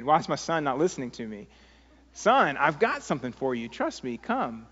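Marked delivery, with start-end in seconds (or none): 2.1-4.7 understated fatherly impatience; insist, a touch irritated; mildly irritated. Acted. Father whose son is not listening, mildly irritated. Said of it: "I'm getting kind of irritated".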